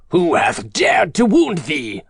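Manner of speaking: slow, indignant giant's demand; storybook giant's measured outrage; angry giant. A narrator's reading. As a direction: demand it slowly, in rising anger. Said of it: "his face grew red with anger".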